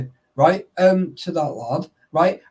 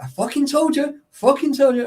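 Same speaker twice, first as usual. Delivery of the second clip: mock told-you-so; 6 semitones higher than usual. Friend scolding him after his mistake, higher gloating told-you-so. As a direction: throw it back at him with a gloating edge. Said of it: "And it's like".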